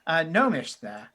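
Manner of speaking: apologetic, then welcoming tiefling host; a touch of a hospitable innkeeper, faltering over words; lightly voiced tavern keeper. Tavern keeper welcomes strangers to the village, lightly voiced, apologetic host.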